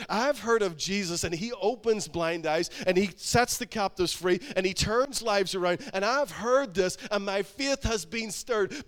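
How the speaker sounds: loud, building testimony in Bartimaeus's role; forceful preacher's quote, slowing at the end; emphatic declaration. Retold or imitated. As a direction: proclaim it with conviction, imitating the believer. Preacher voices Bartimaeus's defiant faith.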